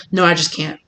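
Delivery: imitated anxiety, fading into softness; anxious refusal. Host anxious over the invite, quietly refusing. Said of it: "they're feeling anxious and anxiety".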